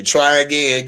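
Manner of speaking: robotic game-announcer voice. Pretend. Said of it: "Do I sound like a robot?".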